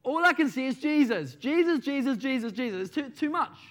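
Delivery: high, loud exasperated rant; mock berating manager. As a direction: scold the staff, rattling off "Jesus" in irritation. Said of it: "the manager was berating one of his staff".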